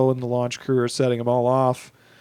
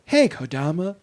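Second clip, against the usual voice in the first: dead dad's voice; 4 semitones higher than usual. Retold or imitated. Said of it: "starts doing the voices of her dead parents".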